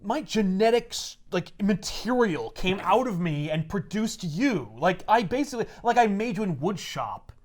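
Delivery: slow, emphatic claim of ownership, lightly hammed up; possessive dad. A dad telling his son he made him, mock-possessive. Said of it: "Can you imagine your dad being like".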